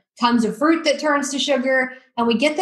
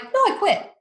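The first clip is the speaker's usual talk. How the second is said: retold defiance; 9 semitones higher than usual. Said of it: "And I'm like".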